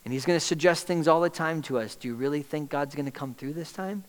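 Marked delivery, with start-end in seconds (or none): 2.0-4.0 soft doubting voice. Acted. Enemy's doubting suggestion.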